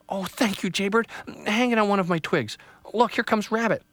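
put-on high, small childlike voice for the tree; a young tree, puzzled and worried; little tree voice. Little Tree puzzled by squawking Jaybird, high voice.

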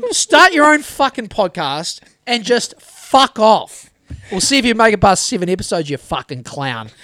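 hammed-up loud rant at the commenter; mock tirade. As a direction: yell it at the critic half in jest. Mock tirade at online critic.

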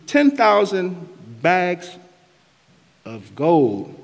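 "ten thousand bags of gold" drawn out very slowly; emphatic. Real, not acted. Preacher reminding listeners of the huge debt, "ten thousand bags of gold" slow and emphatic.

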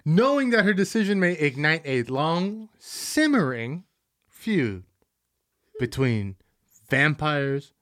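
lightly voiced dramatic trailer read; a hint of an epic movie trailer narrator. Friend reading the Twilight synopsis like a trailer. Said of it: "in the voices that you do it in".

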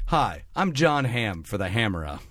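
low, slow pitchman voice; John Hamm. Acted. John Hamm advertising the Hammer camera, low and slow. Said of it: "That's my John Hamm impression".

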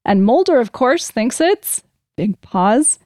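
dramatic trailer narration; movie trailer voice. Shown as a demonstration. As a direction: read it like an epic movie trailer. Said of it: "I'll try and do it in my movie voice".

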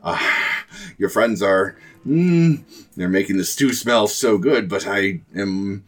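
witch coaxing the girl, lightly voiced; a hint of a crooning old hag; creaky old woman. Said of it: "like a, a creaky old woman's voice".

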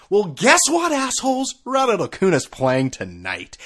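high, loud gotcha; taunting. Real, not acted. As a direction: throw it out loud at the critics. Taunting the outraged tweeters.

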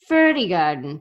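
attempted Irish-sounding "Furry garden"; mock Irish accent. Host mimicking the baker's unclear words, in a mock Irish accent. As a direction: put an Irish twist on the words. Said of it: "She's not Irish".

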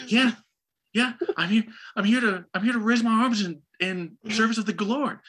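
put-on high, loud Boston accent in church; mock churchgoer with a Boston accent. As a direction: testify in a hammed-up Boston accent. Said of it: "in a Southern Baptist church with that Boston accent".

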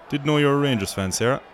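high, fast mock accusation; mock outrage. Real, not acted. Host teasing Sarah over her vote, in mock outrage. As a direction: tease her with fake shock. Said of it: "Only joking".

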